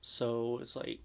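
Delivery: a little shaky voice; slightly shaky, uneasy voice. Real, not acted. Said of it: "my voice kinda sounds, like, a little shaky".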